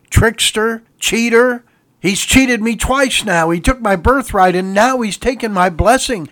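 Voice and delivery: high, loud, anguished pleading cry; loud bitter cry. Acted. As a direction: cry out to your father, heartbroken. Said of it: "he cried out with a loud and bitter cry".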